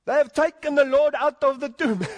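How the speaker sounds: high, loud, hammed-up Jewish accent; Jewish woman voice. Preacher playing a distressed Jewish woman at the tomb, hammed-up Jewish accent. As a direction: wail it as a mock Jewish mother. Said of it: "In my best Jewish voice".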